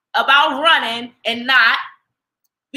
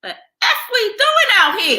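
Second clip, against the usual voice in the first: higher, laughing mock question; laughing mock quote; 10 semitones higher than usual. Cohost laughs while voicing the inner question. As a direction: toss it out with a laugh.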